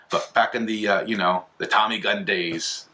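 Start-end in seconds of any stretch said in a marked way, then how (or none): 1.6-2.9 put-on drawn-out, hammy old gangster accent; badly faked Tommy-gun gangster accent; terrible gangster accent. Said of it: "that's a terrible accent".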